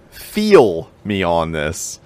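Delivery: slow, drawn-out Pittsburgh "Feel me on this"; Pittsburgh accent. Shown as a demonstration. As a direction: lean into a Pittsburgh accent, slowly. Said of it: "get my Pittsburgh accent out of the way".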